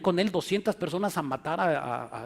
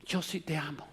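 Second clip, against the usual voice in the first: seductive whisper; 8 dB quieter than usual. Retold or imitated. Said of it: "seducer says he loves her".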